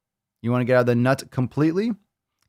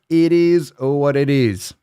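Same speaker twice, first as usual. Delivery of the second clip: slow and louder, slightly higher, savoring each word; drawn-out resigned shrug; 4 semitones higher, 5 dB louder, slower than usual. Shown as a demonstration. Repeating the saying to the podcast listeners, drawn out slowly. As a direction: stretch it out like a mock-profound motto. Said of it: "repeats the saying".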